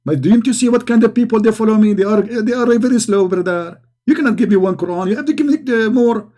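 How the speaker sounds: lightly voiced, exasperated prophet; mock exasperated prophet. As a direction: scoff at the angel, half-hearted. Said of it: "he says".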